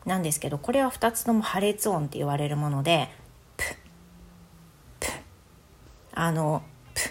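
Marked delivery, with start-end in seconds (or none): 3.6-7.0 "プ" as a burst of voiceless air; explosive P sound. Shown as a demonstration. Teacher showing learners the plosive, explosive voiceless puff on "プ". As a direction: pop "プ" hard enough to blow a tissue. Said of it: "て言った瞬間にティッシュが飛ぶ感じ".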